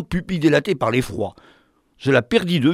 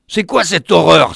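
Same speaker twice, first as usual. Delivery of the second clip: startled exclamation; 3 semitones higher, 7 dB louder than usual. Acted. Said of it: "s'exclama-t-il".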